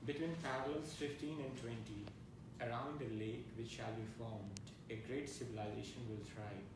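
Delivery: measured reading of a prophecy; poetry reading. Acted. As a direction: read it out in even, falling phrases. Reads poem's epigraph.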